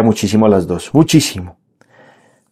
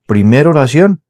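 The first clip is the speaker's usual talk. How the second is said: slow emphasis; slower than usual. Shown as a demonstration. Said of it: "aquí puede estar la clave".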